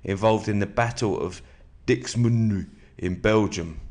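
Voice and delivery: steady, measured book reading; calm nonfiction narration; reading aloud. Acted. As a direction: read the passage to your listener. Reads a war biography aloud.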